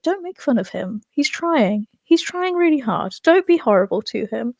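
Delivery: mild mock pleading on behalf of a friend; protective pleading. Acting Anakin defending his droid.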